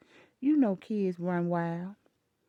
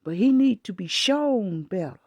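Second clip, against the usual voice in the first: firm retort; 6 dB louder than usual. Retold or imitated. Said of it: "I said".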